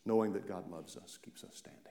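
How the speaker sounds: soft, voiceless whisper. Real, not acted. Answering the congregation, whispered. Hushed key point.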